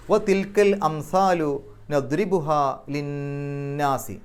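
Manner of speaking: slow chanted recitation, the nun nasalized; Quran recitation. Shown as a demonstration. Teacher recites the verse slowly for students, chanted. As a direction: intone it slowly, letting the nasal ring. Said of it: "നൂനിൻ്റെ ശബ്ദം മണിക്കുക".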